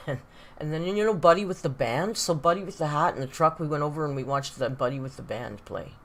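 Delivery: imitating a Northern Ontario local; Northern Ontario accent. Streamer mimicking a local's rambling buddy story, Northern Ontario accent. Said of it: "Northern Ontario's like that too".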